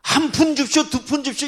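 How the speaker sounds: high loud whining beggar voice; mock a street beggar asking for coins; beggar's plea. Beggar pleading for pennies. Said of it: "이게 아니요".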